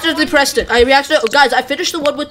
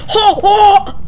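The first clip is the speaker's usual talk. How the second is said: nervous laugh; 6 semitones higher, 4 dB louder than usual. Real, not acted. Nervous laugh after doors.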